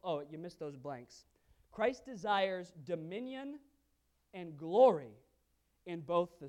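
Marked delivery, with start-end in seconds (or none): 1.7-5.2 slow, pounding emphasis; slow emphatic. Real, not acted. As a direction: preach each word slowly and hard. Preaching emphasis.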